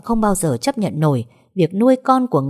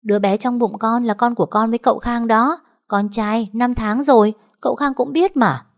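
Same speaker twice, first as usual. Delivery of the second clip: leisurely, unbothered; 6 semitones higher than usual. A narrator's reading. Maid calmly announces her pregnancy, smug and unhurried. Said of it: "đủng đỉnh đáp lại".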